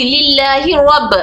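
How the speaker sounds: slow Quranic recitation, stopping on रब; recited pause on rab. Shown as a demonstration. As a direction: recite लिल्लाही रब and halt on रब. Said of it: "अगर मैं रब तक रोक दी".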